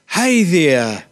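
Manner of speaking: mock-awkward, overfriendly hello; muppet-like greeting. Youth worker rehearsing an opener for a stranger, mock-awkward. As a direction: try out a cheesy opener, lightly hammed. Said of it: "sound like a bit of a muppet".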